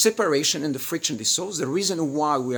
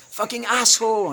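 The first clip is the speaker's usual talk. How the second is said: quoted insult; 10 semitones higher, 7 dB louder than usual. Retold or imitated. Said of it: "And she goes like".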